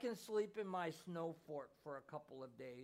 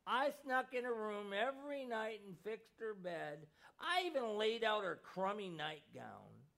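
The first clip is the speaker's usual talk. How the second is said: put-on higher, louder, tearful child's voice; choked-up boy; 4 semitones higher, 5 dB louder than usual. A narrator's reading. Boy sobbing his confession to his mother, higher and louder. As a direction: blurt it through tears like a heartbroken boy. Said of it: "the little boy choked".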